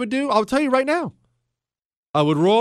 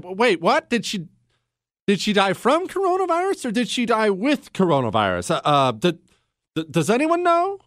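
mock disbelief. Retold puzzled reaction to article.

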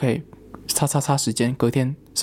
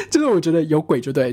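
laughing; 3 semitones higher than usual. Real, not acted. Laughs at own ghost hunch.

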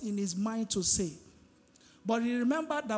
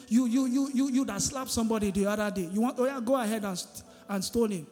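raised, rapid finger-pointing rebuke; angry accusing rant; 4 dB louder than usual. Pretend. Jesus imagined scolding the accusers in anger. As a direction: jab each you at the crowd, fast and hot. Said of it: "in anger and said".

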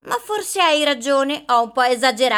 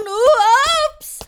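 startled; 8 semitones higher, much slower than usual. Acted. Boxes falling, she stumbles.

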